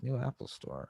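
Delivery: a hint of a synthetic female announcer; robot lady voice. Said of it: "with the robot lady's voice".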